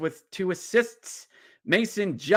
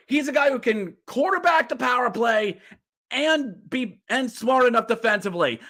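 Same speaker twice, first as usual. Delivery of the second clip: heated rant; 4 semitones higher than usual. Real, not acted. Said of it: "Am I yelling?".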